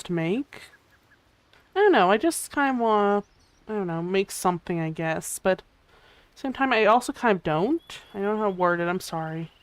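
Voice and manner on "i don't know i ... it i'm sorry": drowsy, drifting speech; half asleep. Real, not acted. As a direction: talk like you're nodding off. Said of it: "I'm half asleep".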